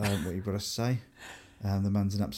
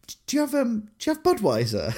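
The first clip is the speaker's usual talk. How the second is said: straight-faced; 12 semitones higher than usual. Retold or imitated. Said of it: "with the straightest face".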